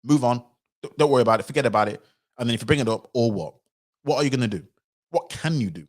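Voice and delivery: a loud careless wave-off turning into a dare; mock dismissive Cameron. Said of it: "That's basically him saying".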